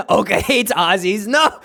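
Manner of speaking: loud, high burst through laughter; real laughing outcry, loud and high; laughing shout. Real, not acted. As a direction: yell it out, cracking up. Laughing shout at chat reaction.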